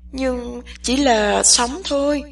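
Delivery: "chỉ" pressed hard, the rest slow and heavy; slow line with weight on "chỉ"; stress on chỉ. A narrator's reading. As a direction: lean on the word "chỉ", slowly. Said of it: "nhấn mạnh đặc biệt vào chữ chỉ".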